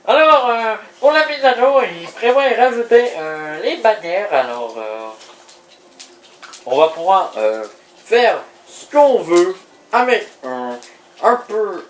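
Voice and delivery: plus aigue et plus forte, ton d'annonceur; voix de commentateur. Acted. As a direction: annoncer la mise à jour en commentateur. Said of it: "notre cher commentateur". (commentateur qui présente la mise à jour)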